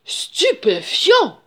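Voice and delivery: loud, high, very drawn-out amazement; astonished. A narrator's reading. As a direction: stretch the word out in sheer astonishment. (stupéfait, voix haute et traînante)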